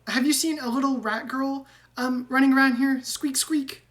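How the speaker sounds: high, squeaky rat voice with squeaks; squeaky rat man. Acted. GM voicing Ratrick.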